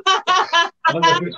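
high strained voice through burning mouth; talking through a burning mouth. Real, not acted.

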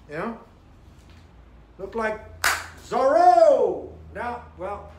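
muffled behind fabric mask; speaking with covered mouth; through a face mask. Real, not acted. Seen 0: Black vented mask covers mouth and nose throughout the labelled words.

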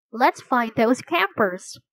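slow, sighing words. Acted. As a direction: sigh it out wearily.

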